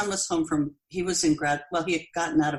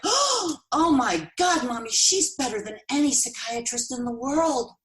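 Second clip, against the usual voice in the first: amazed daughter; 8 semitones higher than usual. Retold or imitated. Daughter raving to mom about the healer, high and gushing. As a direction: lift the voice way up, gushing with wonder. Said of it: "she was like".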